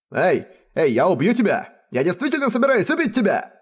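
rising to a high, menacing yell; soldiers' threat. A narrator's reading. Soldiers threatening Rainer, a high menacing yell. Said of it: "Они угрожали Райнеру".

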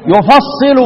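يفصل said "yufassilu"; يفصل as "yu-fas-si-lu"; doubled sad with i. Shown as a demonstration. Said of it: "حمزة والكساء يقرأان إيه؟".

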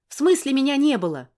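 woman outraged at his accusation; indignant shout. Acted. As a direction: throw it back in disbelief.

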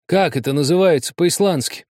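high, imploring question; pleading. Acted. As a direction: beg for the word. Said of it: "с мольбой в голосе спросил". (с мольбой в голосе)

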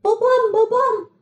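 anguished high slow cry; hit hard crying out. A narrator's reading. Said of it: "acı bir çığlık atıverdi".

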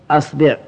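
أصبع said "asbi'", a then i; a-i vowels. Shown as a demonstration. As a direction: open on a, then "bi'". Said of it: "والضم والكسر".

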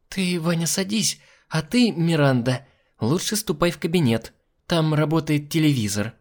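high-pitched sweet hostess voice; chirpy hostess. Acted. Hostess sending the girl off to the television, chirpy. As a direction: give orders in a high, chirpy voice.

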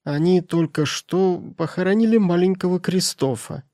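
high, thin spiteful crone; old woman's voice. Acted. Housekeeper tells the miser the boy was buried, sly old voice.

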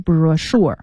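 brochure said bro-SHURE, ch pronounced sh. Shown as a demonstration. Teacher spelling out the new word, brochure with ch as sh. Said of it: "发诗的音".

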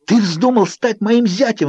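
high, slow furious shriek. A narrator's reading. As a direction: shriek it out in outrage. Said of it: "взвизгнула я". (визгливый возмущённый крик)

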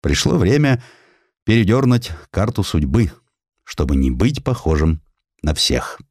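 ordinary delivery

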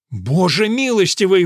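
громкий испуганный возглас; вскрикнуть в ужасе; вырвалось невольно. A narrator's reading. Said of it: "вырвалось у Мэрфина". (Мэрфин вскрикивает при виде топора)

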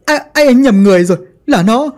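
a traitor pleading with the ghost, pitch soaring; panicked denial. Acted. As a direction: beg and blame, climbing into a shriek. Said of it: "gã khóc lên rồi chỉ thẳng".

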